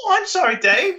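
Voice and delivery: high, squeaky mock apology; bird voice. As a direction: apologise sarcastically as a cartoon bird.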